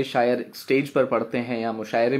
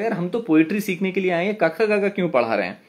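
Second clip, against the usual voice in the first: complaining student; 5 semitones higher, faster than usual. Retold or imitated. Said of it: "बाकी लोगों को लग रहा होगा".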